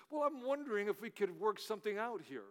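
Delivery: put-on British accent. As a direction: negotiate with a hint of a British accent. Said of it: "in a British voice".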